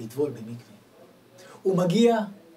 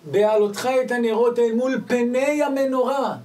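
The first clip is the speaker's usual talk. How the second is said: raised, louder chanted verse; solemn recitation; 9 semitones higher, 11 dB louder than usual. Acted. Preacher declaiming the Torah verse to listeners. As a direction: proclaim the verse with fervour.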